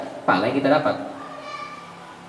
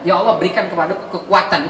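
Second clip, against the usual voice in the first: right prayer; 3 semitones higher than usual. Shown as a demonstration. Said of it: "itu penting".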